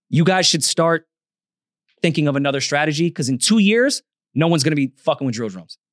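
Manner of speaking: stated as settled fact; matter-of-fact verdict, no room for doubt; matter-of-factly. Real, not acted. Telling drill artists to find another strategy, matter-of-factly. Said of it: "things so matter-of-factly".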